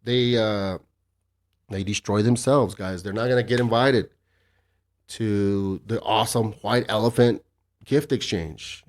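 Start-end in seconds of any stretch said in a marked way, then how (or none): 3.0-8.8 sarcastic. Real, not acted. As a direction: draw out the praise with dry irony. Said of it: "I say that, of course, sarcastically".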